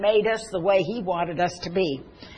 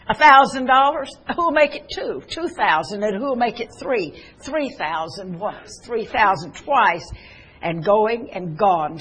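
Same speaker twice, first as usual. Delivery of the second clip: auctioneer calling bids. Acted. Auctioneer selling the violin after the melody, calling bids.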